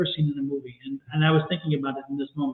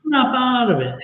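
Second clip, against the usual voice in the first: louder and higher, snapping someone awake; mock movie slap line; 7 semitones higher, 4 dB louder than usual. Friend quoting Moonstruck to the caller, loud and sharp. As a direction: bark it out like jolting a friend out of a daze. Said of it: "it's like a share moment in Moonstruck".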